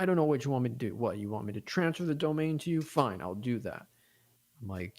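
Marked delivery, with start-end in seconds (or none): 0.0-3.9 mock exasperated, higher and louder; hammed-up grudging outburst; imitating angry man. Angry friend gives in on the phone, mock exasperated. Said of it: "so condescending, so angry".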